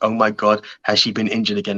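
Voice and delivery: ordinary talk, nothing marked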